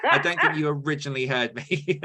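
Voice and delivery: light mock impression of a friend's dry reply; imitating Sam. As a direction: play back a friend's deadpan comeback. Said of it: "for you to go, like".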